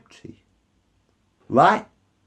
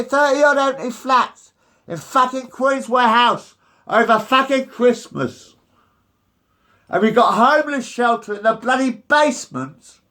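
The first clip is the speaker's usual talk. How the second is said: angry; 4 semitones higher than usual. Real, not acted. Rant at council over homeless.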